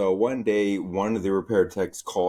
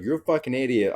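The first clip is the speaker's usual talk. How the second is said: mock angry yell; 6 semitones higher, faster than usual. Worker retelling cussing out a coworker, mock angry yell. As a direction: bark it like you lost it at work. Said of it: "I was just cussing up a storm".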